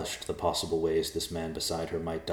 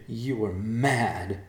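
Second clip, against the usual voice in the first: taunting; 4 semitones higher, much slower than usual. Acted. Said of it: "hoping to anger the man".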